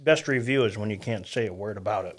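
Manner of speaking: talking through a mouthful of food; words muffled by a bite; chewing while talking. Real, not acted. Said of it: "if you can hear me eating into the microphone".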